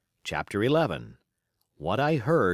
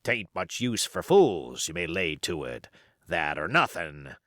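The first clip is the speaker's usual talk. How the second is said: put-on old pirate; 3 semitones lower than usual. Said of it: "cried Silver".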